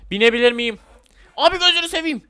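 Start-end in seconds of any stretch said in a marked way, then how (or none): 1.4-2.2 high, loud thrilled cry; gleeful high-pitched outburst; thrilled exclamation. Real, not acted. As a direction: exclaim in delight as you're launched. Thrilled by ride launch.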